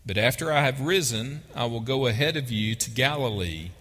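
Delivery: ordinary delivery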